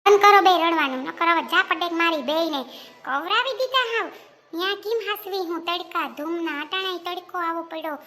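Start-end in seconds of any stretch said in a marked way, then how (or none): 0.0-4.1 exasperated scolding. Acted. Mother scolds two crying children.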